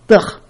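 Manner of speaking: short sound of disgust; disgusted ugh. Shown as a demonstration. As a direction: demonstrate disgust with a brief ugh. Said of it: "Sometimes the sound w-, works".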